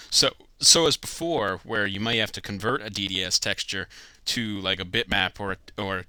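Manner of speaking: talking through hiccups; hiccuping mid-sentence. Real, not acted. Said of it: "Sorry, I have hiccups for some reason".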